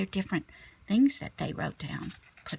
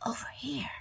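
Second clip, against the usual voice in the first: soft, higher whisper calling a friend; 4 semitones higher, 10 dB quieter, faster than usual. Acted. Child whispering to classmates on the beach, hushed. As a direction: hush it so the turtles stay calm. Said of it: "I whispered".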